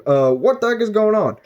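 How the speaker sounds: high, baffled question; confused boy. Retold or imitated. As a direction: react in high alarm. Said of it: "And he's like".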